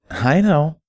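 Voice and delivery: put-on high, far-off girlish pony voice, anxious; Derpy's voice. Derpy asking Barry in the bath, high and anxious.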